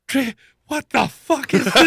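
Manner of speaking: high, laughing imitation of a shocked kid; laughing disbelief. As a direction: crack up while quoting the boy. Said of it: "They're like".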